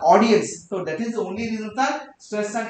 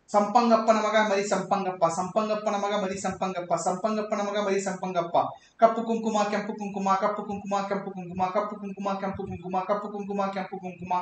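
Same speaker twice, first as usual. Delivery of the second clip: tongue-twister recital. Shown as a demonstration. Teacher demonstrates tongue twisters.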